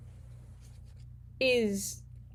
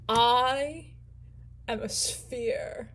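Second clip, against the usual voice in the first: slow, hushed and drawn out; whispered reveal; 3 dB quieter, much slower than usual. Retold or imitated. The sphere whispers his true nature to the square. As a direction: breathe it like a secret. Circle repeats its grand reveal.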